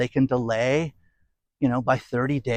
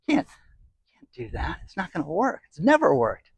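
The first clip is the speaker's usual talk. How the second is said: mock whisper; 3 semitones higher, 4 dB quieter than usual. Mocking Marx laughing at plan.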